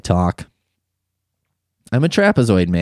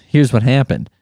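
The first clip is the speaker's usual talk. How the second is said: ordinary delivery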